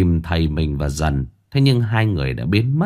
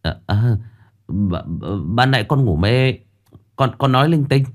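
ngượng ngùng phân trần. Acted. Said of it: "ngượng ngùng phân trần".

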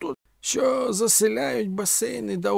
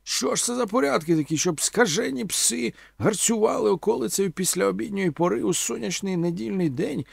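high-pitched, theatrical tirade; pompous outraged complaint, pitched high; indignant cursing; 9 semitones higher than usual. A narrator's reading. Omela, just fished out of the pond, scolding grandly. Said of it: "лаявся Омела".

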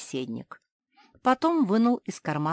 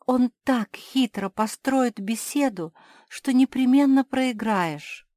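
high, loud, pressing plea; urgent warning; 9 semitones higher, 10 dB louder, slower than usual. Acted. Cinderella warns Mafi against the trick, urgent. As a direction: warn her before it's too late.

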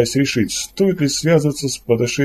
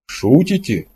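mildly puzzled question, only slightly raised; bewildered, the smile gone; confused disbelief; 3 semitones higher, slower than usual. A narrator's reading. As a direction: ask it again at a loss. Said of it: "второй раз произнёс Кордылов и признался".

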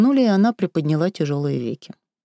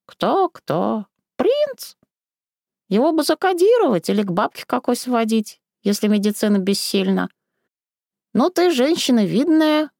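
higher, honeyed singsong granny; oily, melodic old woman coaxing; sugary singsong; 6 semitones higher than usual. Acted. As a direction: sweet-talk her with a lilting tone. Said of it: "елейным напевным тоном".

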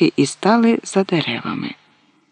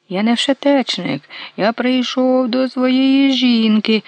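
shrieking; 7 semitones higher, slower than usual. A narrator's reading. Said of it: "заверещав Мусій".

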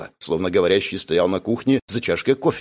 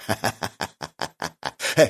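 ghostly laugh; 4 dB quieter than usual. Acted. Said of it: "Призрак засмеялся".

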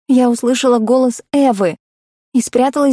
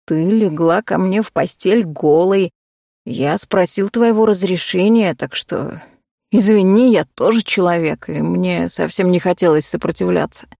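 calm low male voice; 4 semitones lower than usual. Acted. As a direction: explain it unhurried, man to woman. Cole answers calmly, low.

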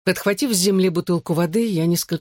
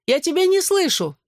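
put-on girl yelling back that she can't hear; shouted; 13 semitones higher than usual. A narrator's reading. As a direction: yell it back at him. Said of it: "крикнула Клэр".

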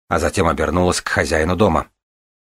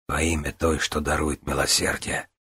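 whispered; 2 semitones lower, 7 dB quieter than usual. Acted. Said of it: "прошептала Вивиана".

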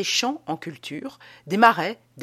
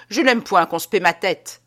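firm affirmation; 7 dB louder than usual. Acted. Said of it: "affirma Théophraste".

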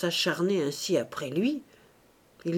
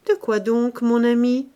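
surprised; 4 semitones higher, 3 dB louder than usual. Acted. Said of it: "étonnée".

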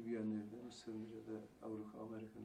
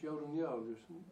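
mother asking; 4 semitones higher, 6 dB louder than usual. Retold or imitated. Mother asks crying child.

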